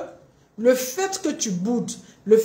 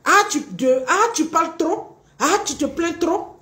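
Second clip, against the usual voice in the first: dismissive reproach; 6 semitones higher than usual. Acted. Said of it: "voici les réponses de ces personnes".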